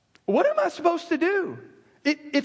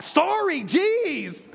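sulky, higher sorry then a dropped jeez; bratty kid sorry; 4 semitones higher, much slower than usual. Retold or imitated. Pastor mimicking a child's apology to a parent, sulky and dismissive. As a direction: toss off a sorry you don't mean, like a kid. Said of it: "your kids do that one on you".

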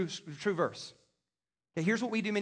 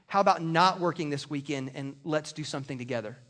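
gentle request; 6 semitones lower than usual. Shown as a demonstration. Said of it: "a little bit more like this".

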